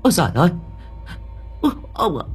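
high, frightened wail; panicked old woman shrieking; terrified cry. A narrator's reading. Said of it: "Bà cụ sợ quá".

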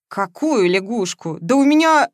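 high, loud, offended; indignant outburst. Acted. Возмущённо. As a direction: Veronika takes offence at her friend's remark, indignant. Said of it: "возмутилась Вероника".

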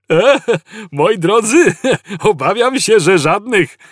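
high, giggling machine voice; chirpy computer. A narrator's reading. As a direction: break bad news with a merry chuckle. Cheerful computer gives bad news.

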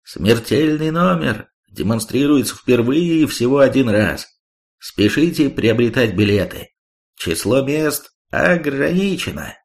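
bellowed carnival barker announcement; booming circus ringmaster. Acted. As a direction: shout it like a ringmaster to the crowd. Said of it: "заорал во всю глотку".

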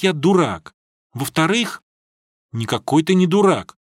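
usual speaking voice

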